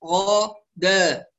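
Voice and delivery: "را، غا، دا" slowly, one evenly held syllable each; equal timing. Shown as a demonstration. Teacher demonstrates timing for students, equal syllables. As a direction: give every syllable of "را، غا، دا" identical length. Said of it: "فزمن الراء المفتوحة يساوي زمن الغين".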